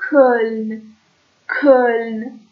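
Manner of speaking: «کلن» slowly, vowel as a throaty German ö; ö from the throat. Shown as a demonstration. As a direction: hold the rounded ö in «کلن». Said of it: "او اوملوت از ته حلقه". («کلن» کشیده با ö از ته حلق)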